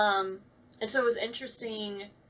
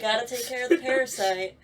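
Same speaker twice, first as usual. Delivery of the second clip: teasing echo; 4 semitones higher, 6 dB louder than usual. Pretend. Echoing the joke.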